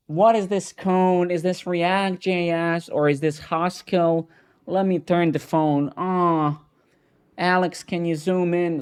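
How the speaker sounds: mocking squinting viewer. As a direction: squint at a tiny phone and whine in confusion. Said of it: "He's like, now".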